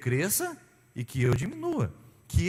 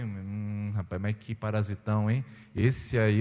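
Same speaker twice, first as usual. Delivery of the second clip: lower, mocking tone of a judge of others; mock judgmental gossip; 6 semitones lower, slower than usual. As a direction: sneer like a gossiping churchgoer. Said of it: "falando assim".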